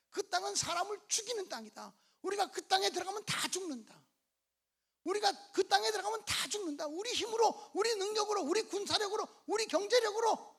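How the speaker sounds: preacher voicing doom-laden spies; alarmist report.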